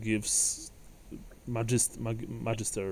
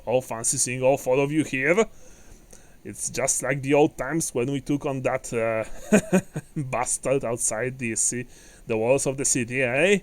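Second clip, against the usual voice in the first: jovial dwarf, higher and lively; hearty dwarf; 3 semitones higher, 5 dB louder than usual. Acted. Dwarf recalls old fights with companions, jovially. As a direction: swap old war stories as a hearty dwarf.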